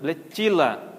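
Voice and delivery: "Bletila" with stressed "tchi", no TS; unchanged TI. Shown as a demonstration. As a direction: keep the CHI sound in "Bletila". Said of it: "então ela não muda". ("Bletila" com "ti" tônico, sem mudar)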